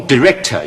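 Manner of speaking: director開頭讀短I，似di; 慢讀director，頭一音節用短I音; 短I音讀法. Shown as a demonstration. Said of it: "總之三個音都有". (示範di-rector嘅讀法)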